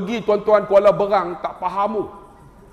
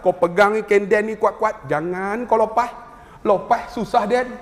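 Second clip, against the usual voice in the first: loghat Negeri Sembilan. Retold or imitated. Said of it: "orang Negeri Sembilan".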